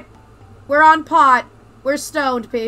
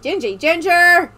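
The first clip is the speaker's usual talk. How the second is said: pet voice; 5 semitones higher, 4 dB louder, slower than usual. Real, not acted. Greeting the cat.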